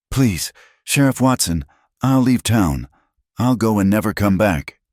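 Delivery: high, loud desperate begging; frightened pleading. A narrator's reading. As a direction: beg him for mercy. Pleading before punishment.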